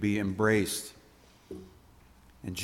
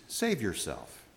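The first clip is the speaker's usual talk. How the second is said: softer, lower echo of the tempter; quiet refrain; 4 semitones lower, 7 dB quieter than usual. Acted. Preacher echoing the tempter's whisper, quiet. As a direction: let it drop as a soft aside.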